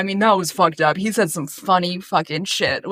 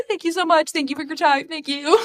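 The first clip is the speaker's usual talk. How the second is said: pageant queen; 10 semitones higher than usual. Pretend. Mock pageant winner speech.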